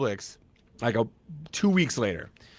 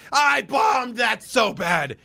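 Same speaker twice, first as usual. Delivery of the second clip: dejected inner shout; 10 semitones higher, much slower than usual. Retold or imitated. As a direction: drag it out like a groan of defeat. Inner voice after bad audition.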